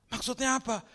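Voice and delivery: high-pitched mock bewilderment; baffled question. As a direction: blurt it back at the pastor, acting confused. Acting the confused person's question.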